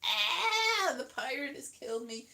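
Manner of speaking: strained cry fading away; worn-out voice. Real, not acted. Comic worn out by pirate voice, strained fading croak. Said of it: "Oh, I can't speak anymore".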